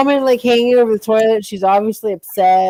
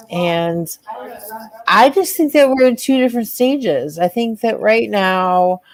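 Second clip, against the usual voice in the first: role-play breakup. Acted. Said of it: "are gonna do some role playing".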